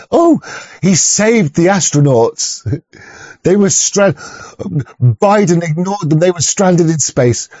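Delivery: slow, drawn-out mock sincerity; mocking gullible believer. Ranting vlogger mocks space believers, slow mock voice. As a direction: parody a naive fan, dragging the words.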